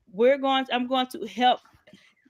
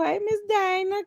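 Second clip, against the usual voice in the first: excited greeting; 8 semitones higher, 4 dB louder than usual. Real, not acted. Greeting a friend joining live.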